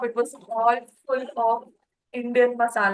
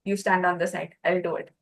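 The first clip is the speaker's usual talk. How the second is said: truck driver taking charge; 4 semitones lower, 4 dB louder than usual. Retold or imitated. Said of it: "He said".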